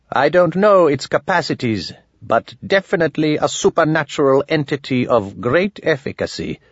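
a hint of a learned old man; lightly voiced old wizard. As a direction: lightly put on a formal, self-important sorcerer.

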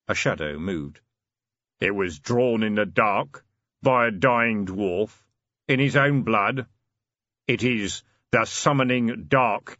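slow, grave hooded stranger; deep voice. Acted. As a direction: speak like a looming shadow. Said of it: "a deep voice from the doorway said".

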